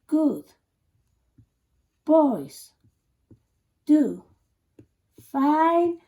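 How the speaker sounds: one loud word at a time, long pauses; slow mnemonic demo. Shown as a demonstration. Teacher introducing the bass clef trick, slow spaced chant. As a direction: punch each word separately, stretch the last. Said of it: "I'm going to say this".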